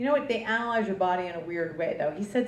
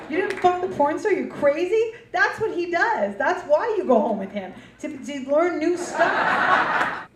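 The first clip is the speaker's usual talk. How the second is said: raised, disbelieving scold; incredulous; 5 semitones higher, 3 dB louder, slower than usual. Real, not acted. Comic scolds a friend for skipping the porn star, incredulous. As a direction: scold her friend in mock outrage.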